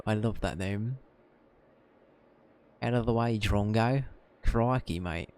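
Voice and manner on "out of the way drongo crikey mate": put-on light Australian accent for Esther; lightly voiced Australian creature keeper. Esther showing off her familiar to the others, in a light Australian accent. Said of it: "Esther's now canonically Australian".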